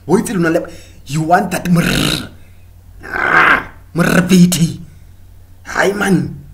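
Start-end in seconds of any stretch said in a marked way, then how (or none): 1.6-6.4 mock flirty purr. Mocking a flirting man.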